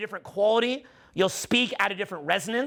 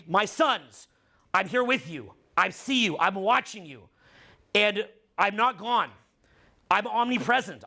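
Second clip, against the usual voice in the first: tender message to sons. Pretend. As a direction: speak gently to your sons as if from beyond. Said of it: "what I would say to them is".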